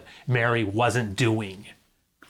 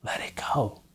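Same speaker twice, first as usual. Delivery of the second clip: soft release; 5 dB quieter than usual. Real, not acted. Softly released line.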